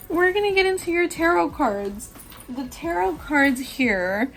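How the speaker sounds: high, laughing through the words; giggling. Real, not acted. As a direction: giggle as you talk. Giggling at herself.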